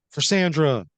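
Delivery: high, loud dedication; battle cry. Acted. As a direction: take up the rallying cry. Second bag holder's rallying cry.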